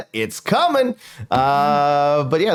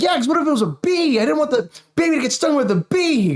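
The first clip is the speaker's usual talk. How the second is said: high mock defensive; 12 semitones higher than usual. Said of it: "I'm like".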